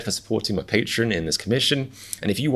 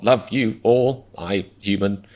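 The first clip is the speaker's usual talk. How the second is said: robot voice; slower than usual. Pretend. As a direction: drag it out stiff like a machine. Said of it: "That sounds like a robot".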